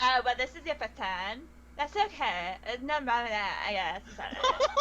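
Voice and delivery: lightly voiced ditzy barmaid; breezy Valley Girl barmaid. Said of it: "a Valley Girl barmaiden".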